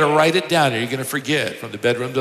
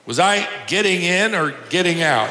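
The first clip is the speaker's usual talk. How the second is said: higher-pitched puzzled call, no real shout; mild mock holler; 4 semitones higher than usual. Elderly sister calling from her bath, mildly hollered. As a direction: call it out lightly, without full volume. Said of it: "then paused and hollered".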